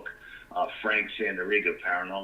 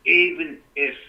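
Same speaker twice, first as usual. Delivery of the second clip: loud high burst of protest; raised voice; 7 semitones higher, 10 dB louder, slower than usual. Retold or imitated. Warning a reckless friend off the cave, loud and high. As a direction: cut him off loudly, pitch jumping up.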